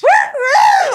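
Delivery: high, loud mock catcall; mock wolf whistle woo; catcalling men. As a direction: whoop like leering men. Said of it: "they were like".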